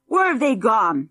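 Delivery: a bratty boy demanding, lightly voiced. A narrator's reading. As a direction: demand an answer. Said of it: "demanded Junior".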